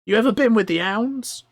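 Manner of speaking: high, loud goblin interrogation; shouted high creature voice; suspicious goblin. Acted. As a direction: grill the stranger as a goblin.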